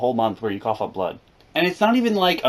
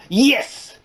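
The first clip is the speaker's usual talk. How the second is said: insistent nurse; 10 semitones higher than usual. Retold or imitated. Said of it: "she's like".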